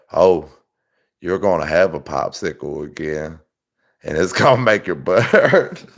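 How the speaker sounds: lightly voiced leering neighbor; mock camper come-on. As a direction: tease it low and sleazy. Imitating camper guy's offer.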